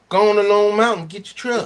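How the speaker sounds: imitating a truck ad guy. Imitating a truck dealer ad to fellow driver, salesman pitch. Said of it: "That's exactly how that motherfucker sounds".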